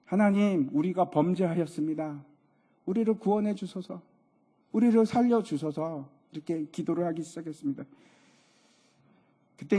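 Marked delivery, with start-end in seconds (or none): 0.0-6.1 lightly acted plea to God; pleading prayer. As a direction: imitate a repentant prayer, rising on the pleas. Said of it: "모세가 하나님께 기도를 합니다".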